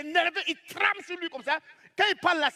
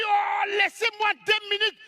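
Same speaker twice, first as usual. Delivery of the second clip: shouting, pitch up, louder; angry shout; 6 semitones higher, 4 dB louder, slower than usual. Retold or imitated. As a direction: rant at the cops, worked up. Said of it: "il parle". (cri énervé du voisin)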